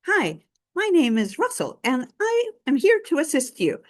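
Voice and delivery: put-on cute, high little-boy voice; earnest boy scout introducing himself; Russell. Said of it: "he has this cute voice".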